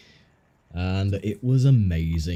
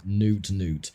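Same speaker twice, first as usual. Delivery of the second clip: deadpan Pingu voice; 3 semitones lower, 3 dB quieter than usual. Retold or imitated. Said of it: "in the most deadpan voice".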